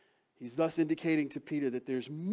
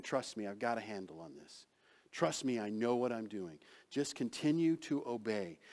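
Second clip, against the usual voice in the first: reassuring Jesus; 3 semitones lower, 3 dB quieter than usual. Acted.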